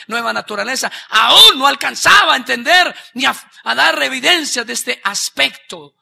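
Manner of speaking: ramp up to a shout; preaching rising to a shout; building preaching. Acted. Preaching builds to full force.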